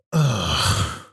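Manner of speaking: low mock grunt; grunted ugh. Shown as a demonstration. Comedian showing a noise he hates, grunted ugh. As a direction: demonstrate an annoying "ugh". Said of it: "people who make this noise".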